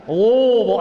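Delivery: "Louisville" squeezed into LUH-vul; "Louisville" clipped to two swallowed syllables; local Louisville. Shown as a demonstration. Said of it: "I had to learn how to say that".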